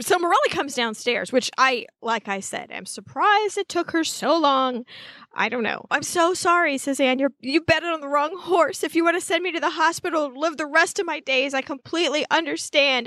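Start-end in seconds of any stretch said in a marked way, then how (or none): 5.9-13.1 slightly raised pitch, mock-earnest apology; dramatic apology. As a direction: voice a melodramatic girl apologizing. Voicing Anne's dramatic apology.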